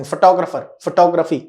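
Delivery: "फोटोग्राफर, फोटोग्राफी" with stress on TOG; corrected pronunciation. Shown as a demonstration. Teacher reminding students where to stress, TOG punched. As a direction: say fuh-TOG-ruh-fer, fuh-TOG-ruh-fee. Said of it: "ध्यान रखेंगे".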